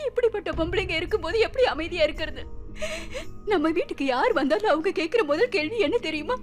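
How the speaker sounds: tearful sobbing lament; crying. Acted. Wife crying to her husband about the neighbours' taunts, sobbing. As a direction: cry out the pain of being childless. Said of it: "நீ இப்படி அழாத".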